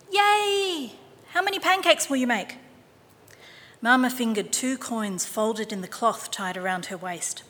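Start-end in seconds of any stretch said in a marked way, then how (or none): 0.1-2.6 put-on delighted boy. A narrator's reading. Boy voiced in story.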